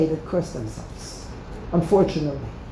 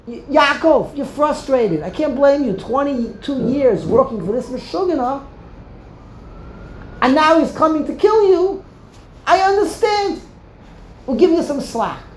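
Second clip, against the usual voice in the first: gentle God voice; 4 semitones higher than usual. Retold or imitated. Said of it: "Then Hashem will say".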